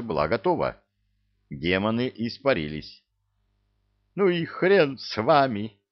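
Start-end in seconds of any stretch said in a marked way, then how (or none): 4.1-5.8 heated yell. A narrator's reading. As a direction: fling it out in a rage. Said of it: "в запале проорал Люцифер".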